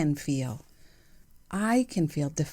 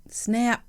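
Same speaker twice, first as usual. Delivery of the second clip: "Snap" spat out short, sharp and higher; 6 semitones higher than usual. Shown as a demonstration. Showing the listener how to say it, sharp higher "Snap". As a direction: crack the word "Snap" like a whip. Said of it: "And you should say it like that".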